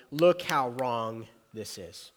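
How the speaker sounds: slow down and lean on Look; emphatic. Retold or imitated. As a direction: Look how wrong this is, said slowly with LOOK stressed.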